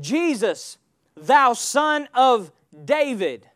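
"thou son of David" slowed right down, word by word; stress on SON OF DAVID. Shown as a demonstration. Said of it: "why he said it that way".

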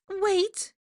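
very high character voice; high, urgent put-on voice; urgent call. A narrator's reading. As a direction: stop him with a high-pitched cry. Rita stops Draco leaving.

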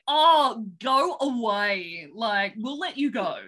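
loud, drawn-out "oh, go away"; mock exasperation. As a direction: play a fed-up kidnapper, lightly hammed-up. Imagined fed-up kidnappers.

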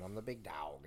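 "Dog" said as "dowg"; altered "Dog". Acted. Would-be wrestler claims his knockoff name, "Dog" said as "dowg". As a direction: give "Dog" an "ow" vowel. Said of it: "No, it's different".

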